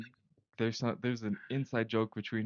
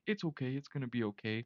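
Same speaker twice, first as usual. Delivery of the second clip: lightly voiced, softer consoling tone; imitated reassurance; 2 semitones higher, 3 dB quieter than usual. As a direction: gently mimic someone consoling you. Retells strangers comforting him.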